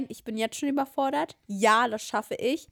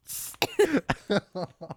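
coughing fit; 2 semitones lower than usual. Real, not acted. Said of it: "Da krieg ich gleich einen Hustenanfall".

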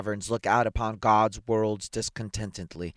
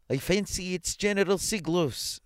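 high-pitched tentative bystander; voice from crowd; 10 semitones higher than usual. A narrator's reading. Someone in the crowd naming the owner, high voice. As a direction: pipe up from among the onlookers.

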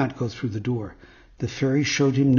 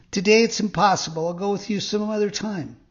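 high little marionette voice; puppet declining; 6 semitones higher than usual. A narrator's reading. Puppet turns down the fox, high puppet voice.

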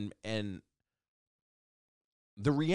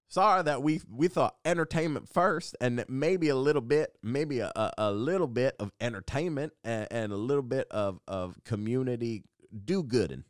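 louder, sheepish apology in a put-on Southern accent; dumb Southern accent; 4 semitones higher, 3 dB louder than usual. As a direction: stumble through excuses in a mock Southern accent. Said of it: "Southern accents because".

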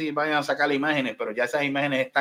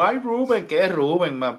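higher-pitched Americanized "Rubén"; mock gringo accent; 4 semitones higher, 3 dB louder than usual. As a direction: imitate a Latino putting on English pronunciation. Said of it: "porque yo he escuchado".

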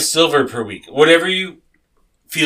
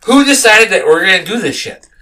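worked-up rant; 4 semitones higher, 4 dB louder than usual. Acted. Player rants about gold wages.

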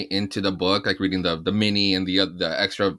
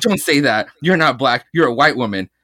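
ranting villain; 4 semitones higher, 5 dB louder than usual. Retold or imitated. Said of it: "and he goes".

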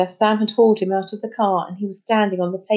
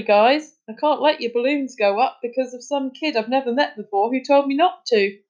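higher, animated mock-reporting; sarcastic running commentary, pitched up; bitter imagined scenario; 6 semitones higher than usual. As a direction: play out the imagined scene with scorn. Boy mockingly imagines the scene.

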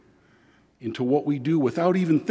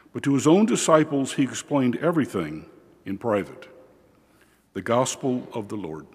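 solemn liturgical reading voice; gospel reading. Acted. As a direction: proclaim the gospel steadily from the ambo.

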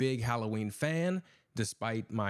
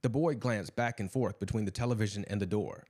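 story narration. A narrator's reading. Host reading his Halloween tale to listeners, story narration. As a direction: narrate a classic tale evenly, setting the scene.

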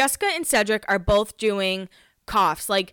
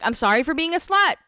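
sarcastic apology; 8 semitones higher than usual. Retold or imitated. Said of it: "she's like".

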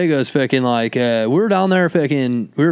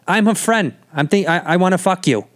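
put-on higher brash Boston girl; a light brash Boston voice; Boston accent; 5 semitones higher than usual. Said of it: "Boston has this, like, just brashness".

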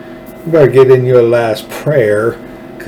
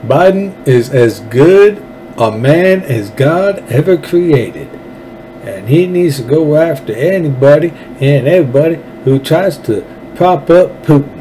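put-on Lindsey Graham accent; 4 semitones higher than usual. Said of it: "Let me read it again in that little accent".

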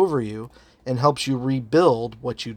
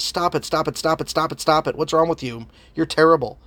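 mildly acted scolding, rattled off repetitively; a touch of exasperated condemnation; condemning voice; 2 semitones higher than usual. Imagined voice berating the believer, mildly condemning. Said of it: "the voice of condemnation".

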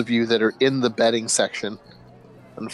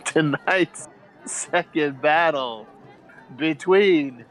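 slow, drawn-out ring announcer, pitched up; hammed-up announcer introducing the fighters; 4 semitones higher, much slower than usual. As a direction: stretch every name like a boxing announcer. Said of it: "the announcer kind of".

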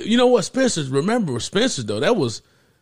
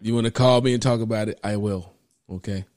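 mock deep, solemn tone; deep serious voice; 8 semitones lower, 4 dB quieter than usual. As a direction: drop it low and solemn, teasing. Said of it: "got deep in it".

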